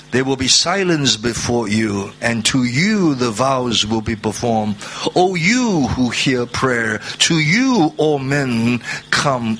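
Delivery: slow reading, every "you" weighted; stress on you. Shown as a demonstration. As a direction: lean on each "you", slowed. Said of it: "You notice the emphasis there".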